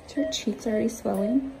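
usual speaking voice

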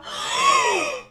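loud, squealed gasp of amazement; high excited gasp. Real, not acted. Player amazed by the pug's jump, high gasp. Reaction to pug jumping through hoop.

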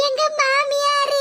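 slow, tearful wail; slow sobbing "மாமியாரு". Acted. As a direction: sob the word out. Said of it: "கண்ணீரை விட்டு கதறுத".

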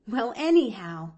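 mildly tickled; light chuckle. Acted. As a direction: say it with a touch of a chuckle. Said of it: "she chuckled".

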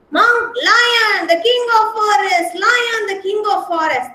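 high, proclaiming the king of the forest; monkey hailing the lion as king; mock proclamation. Monkey calls the lion's title.

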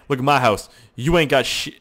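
mock gloating at the neighbours; boastful taunt. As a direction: brag at the neighbours' houses. Taunting neighbours about the house.

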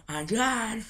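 laughing through a mouthguard; muffled speech with a mouthguard; wearing a mouthguard. Real, not acted. Intro redone wearing mouthguard.

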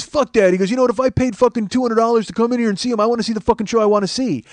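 retold angry fan, loud and high; heckler yelling. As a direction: argue back like an indignant ticket-buyer. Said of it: "he's yelling, and he's being loud".

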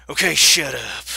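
loud, curt order; angry snap. Acted. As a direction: shut him up hard. Killer snaps at farmer.

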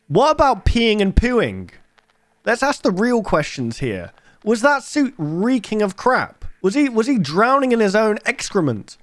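wildly high, grossed-out indignation; mock outraged. Real, not acted. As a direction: demand answers in comic disbelief.

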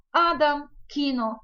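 "адам", "кіно" as A-dam, KI-no; penultimate stress. Shown as a demonstration. Teacher giving examples of the Polish rule, penultimate stress. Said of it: "наголос завжди падає на передостанній склад".

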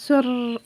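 spoken sound of sniffing, with rolled r; narrated nose-sniff noise; imitated sniffle. A narrator's reading. Chikka sniffs after crying, imitated sniffle. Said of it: "ಎಂದು ಮೂಗೆಳೆದುಕೊಂಡ".

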